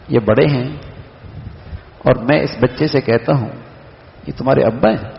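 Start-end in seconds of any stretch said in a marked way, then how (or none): 4.3-5.1 "ابا" swung up as a question. Shown as a demonstration. Speaker asks a child about his father, questioning. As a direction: ask it, lifting the pitch on "ابا". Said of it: "میں اس کو سوال بھی کر رہا ہوں".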